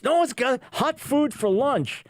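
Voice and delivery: sarcastic host mocking the hot-lunch demand; mocking whine. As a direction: hold out each word as if it's unthinkable. Mocking the protesters' demand list.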